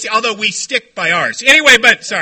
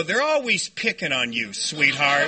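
doting mother; 9 semitones lower, 4 dB quieter than usual. Retold or imitated. Plays doting mother after jail.

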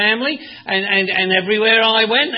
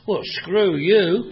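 dismissive retort; 2 semitones lower, much slower than usual. Retold or imitated. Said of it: "I think".

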